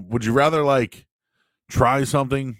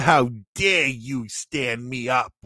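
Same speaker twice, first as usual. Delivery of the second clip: slow, drawn-out mock indignation; mock angry girlfriend confronting him in front of the guys, slow; imitating mad girlfriend; much slower than usual. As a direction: play the offended girlfriend, half-hearted. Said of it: "when she's all mad and she's like".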